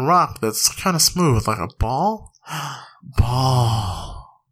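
lightly voiced grunting caveman. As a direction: play a dim caveman finding things. Acting out a caveman discovering ball.

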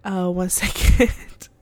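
talking mid sip of tea; words around a sip of tea; while sipping a drink. Real, not acted. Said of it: "sip my tea like I'm about to".

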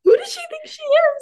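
put-on high, sassy mean girl. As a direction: sneer it like a diva. Mock diva line.

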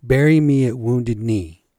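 loud, slow hammed-up announcer call; sports announcer. Vlogger quoting a sportscaster's dunk call, loud mock announcer. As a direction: mimic the play-by-play call. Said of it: "And the announcer says".

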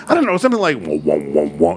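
low, droning wah sounds; mock whale noise. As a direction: drone the whale call low. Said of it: "He goes".

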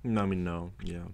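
talking with a mouthful; chewing while talking. Real, not acted. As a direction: answer through a bite of food. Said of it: "he's eating right now".

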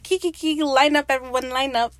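high, loud, giddy calling out; Ed laughing. Retold or imitated. Captain telling the crew to line up, mock-gleeful call. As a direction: imitate a gleeful captain rallying everyone. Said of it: "Ed's laughing like".

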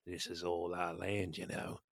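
bully emu. Pretend. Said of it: "bully emu".

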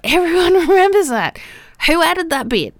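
high, loud, incredulous protest; exasperated disbelief. Real, not acted. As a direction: insist in disbelief, voice shooting up. Protesting the shared false memory.

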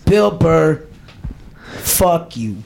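lightly put-on Boston accent; amateur go at Boston speech. Shown as a demonstration. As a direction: practise short phrases in mock Boston. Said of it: "how do you do a Boston accent".

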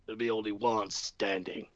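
low hammy Hogan-style promo; wrestler promo voice. Retold or imitated. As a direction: cut a promo to the brothers. Hulk Hogan style promo "brothers.

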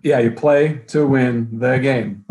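slow, loud coach rant; Herm Edwards impression. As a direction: stress PLAY slow and loud like a press conference. Echoes Herm Edwards' famous rant.

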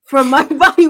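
a real laugh mid-phrase; laughing through words. Real, not acted. Telling the host about church, laughing. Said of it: "Why are you laughing at me?".

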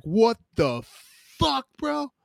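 high, loud stunned outburst; imitating a stunned cellmate; shocked. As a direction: jump up in pitch in disbelief. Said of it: "He's like".

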